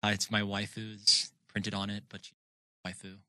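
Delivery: soft, shy otaku mumble; quiet mumble. Acted. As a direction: mumble it under your breath. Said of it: "add a little bit more volume to your voice".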